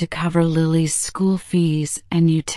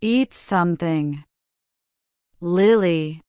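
gentle; 6 semitones lower than usual. Acted. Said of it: "the mother said gently".

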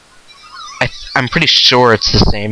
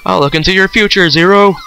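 spooky fortune teller voice; 6 semitones higher than usual. Retold or imitated. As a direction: croon it like a spooky psychic. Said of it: "I even perfected my spooky voice".

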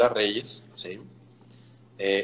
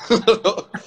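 laughs through the line; amused chuckle at his own trick; laughing; 11 semitones higher, 4 dB louder than usual. Real, not acted. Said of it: "se ríe". (se ríe al contarlo)

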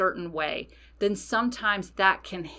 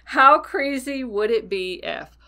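higher, louder, emphatic catchphrase; triumphant proclaiming; 5 semitones higher, 6 dB louder than usual. Shown as a demonstration. Witch revealing the magical phrase to listeners, triumphant. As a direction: announce your catchphrase with gusto.

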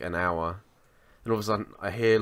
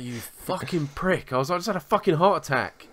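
retold scolding; 7 semitones higher than usual.

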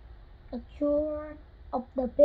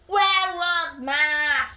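put-on slow sung little-boy line; sing-song child; 7 dB louder, much slower than usual. Little Max asks in a slow sing-song. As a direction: sing the question slowly like a small boy.

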